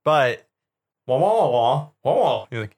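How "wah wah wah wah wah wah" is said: droid babble. Acted. Droid noises.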